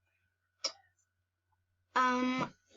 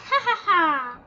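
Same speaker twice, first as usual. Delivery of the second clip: loud, higher mock triumphant laugh; gloating laugh; 6 semitones higher, 5 dB louder than usual. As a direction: crow with a pleased ha-ha-ha. Hidden mouse gloats.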